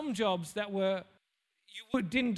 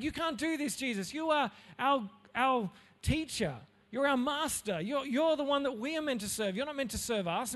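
upset protest; 4 semitones higher than usual. Retold or imitated. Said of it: "Peter's upset because he's like".

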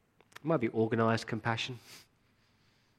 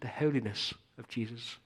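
a light mock English accent on "the holiness of Jesus"; a hint of an English accent, mocking the religious crowd; 3 dB quieter than usual. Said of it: "in their best English accent".

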